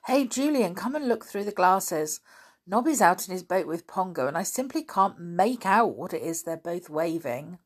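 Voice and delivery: put-on boy calling out excitedly from the ledge. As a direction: call your brother over, thrilled. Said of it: "Dick called to him excitedly".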